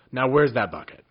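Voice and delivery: loud, high eager question; eager demand. A narrator's reading. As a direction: demand it greedily. Wizard eager for bucket.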